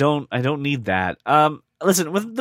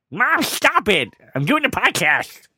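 higher, sharp call at mom offscreen; scolding his mom for interrupting the podcast; telling mom off; 5 semitones higher, slower than usual. Real, not acted. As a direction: shush your mom mid-recording. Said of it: "if you yelled at the dog that way".

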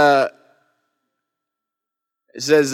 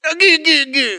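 put-on old hermit stammer; 10 semitones higher than usual. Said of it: "that's the one".

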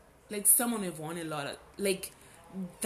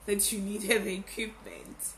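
nagging inner voice; 3 dB louder than usual. Retold or imitated. Scolding herself for putting off the podcast, stern inner voice. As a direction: scold yourself like a stern conscience. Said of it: "That voice was like".

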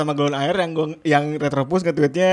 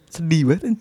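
whisper. Real, not acted. Sad remark about sick partner.

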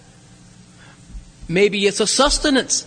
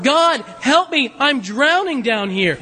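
1 pleading prayer; 3 semitones higher, slower than usual. Retold or imitated. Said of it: "So he directs his attention upward".

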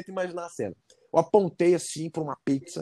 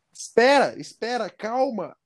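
alarme encenado; 7 semitones higher than usual. Retold or imitated. Freando o atendente que serve demais.

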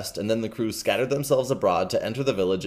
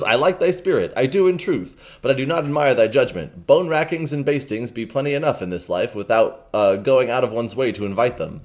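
Hugo the rogue, lightly voiced. Rogue Hugo lecturing the king, lightly voiced. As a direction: read it as a cocky vagabond. Reading Hugo's long speech.

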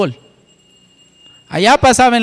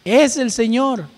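higher, slow and marveling; eager recognition; 4 semitones higher than usual. Pretend. Preacher asking listeners to say it themselves, marveling. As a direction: say it like you just recognized him. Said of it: "¿alguna vez ha dicho eso?".

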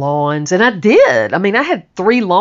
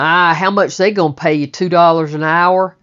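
scornful father; 5 dB louder than usual. Retold or imitated. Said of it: "He was so mean".

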